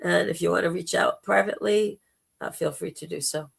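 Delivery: hoarse, gravelly throat; rough, gravelly speaking voice. Real, not acted. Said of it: "putting up with my gravelly voice".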